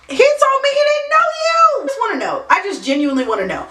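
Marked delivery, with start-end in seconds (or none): 0.1-1.6 indignant. Real, not acted. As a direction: rattle it off in disbelief. Indignant rant to audience.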